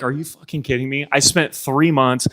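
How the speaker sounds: retold freak-out. Limping runner replaying his pre-race panic, freaking out. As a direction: replay your panic, building on each complaint. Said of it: "I am freaking out".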